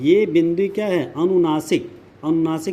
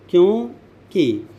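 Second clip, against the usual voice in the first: क्योंकि split slowly into क्यों, pause, कि; slow word breakdown; 2 semitones higher, much slower than usual. Shown as a demonstration. Teacher dissecting a word for students, क्योंकि slow and split. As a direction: say क्योंकि at half speed, parting क्यों from कि. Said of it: "अब क्यों में देखिए".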